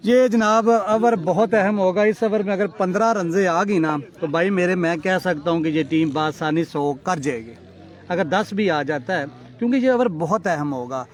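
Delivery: brisk play-by-play commentary; live cricket commentary. Real, not acted. Commentator hyping the crucial over to listeners. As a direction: call the over like a local match commentator.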